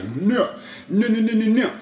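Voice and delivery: high, loud mock yell of no. Guy fighting off the grapple, high loud yell. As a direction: yell it as he's being grabbed.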